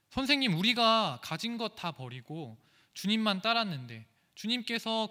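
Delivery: loud indignant complaint to the Lord; protesting disciples. Retold or imitated. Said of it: "이렇게 따지고 있는 것입니다". (주님께 따지듯 높고 큰 항의)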